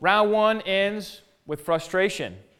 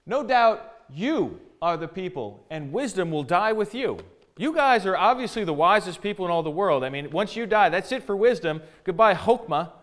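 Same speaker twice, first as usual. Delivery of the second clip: mock praise, pitched up a little; sarcastic; 3 semitones higher than usual. Job answers the friends who think themselves wisest, sarcastic. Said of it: "he says sarcastically".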